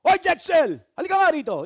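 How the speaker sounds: yelling a name across the room; sigaw. Shown as a demonstration. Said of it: "Bakit hindi kailangan sumigaw?". (pasigaw na tawag)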